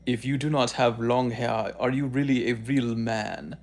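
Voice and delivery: lightly voiced preachy long-haired guy; mock the smug influencer a little; a hint of a smug lecturing guy; imitating his talk. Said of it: "he talks like this".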